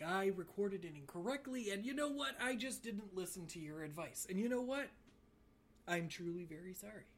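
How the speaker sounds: solemn on-air apology, lightly done; a hint of a disgraced anchor; news anchor apology. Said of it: "a news anchor that just got in trouble".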